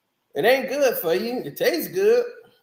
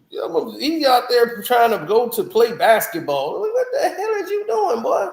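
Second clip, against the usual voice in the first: laughing; 2 semitones higher than usual. Real, not acted. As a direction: crack up mid-sentence in disbelief. Laughing at a rapper quitting rap.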